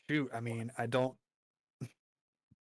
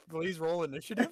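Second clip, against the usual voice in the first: dragon voice; 4 semitones higher than usual. Acted. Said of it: "Your dragon voice is better than mine".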